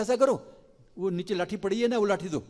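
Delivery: put-on eager child urging his friends; little Krishna calling. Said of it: "तो कृष्ण बोलते हैं".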